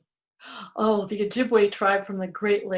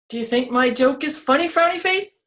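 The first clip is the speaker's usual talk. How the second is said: teasing tree; 5 semitones higher, 3 dB louder, faster than usual. Acted. Teasing tree asks again.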